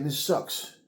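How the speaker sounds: high, straining cry of someone suffocating; mock gasping plea, rising high and loud; desperate plea. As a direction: plead for air, voice climbing. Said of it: "And he starts saying".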